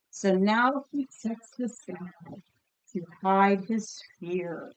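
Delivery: measured storybook reading to a class; picture book read aloud. A narrator's reading. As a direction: read it like a story for kids, savouring each image. Teacher reads picture book aloud.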